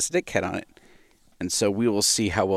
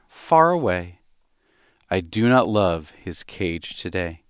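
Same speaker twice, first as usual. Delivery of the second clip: slow, sing-song storybook reading; slow nursery-poem reading; reading a poem to a baby; slower than usual. Acted. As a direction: read it gently to the baby.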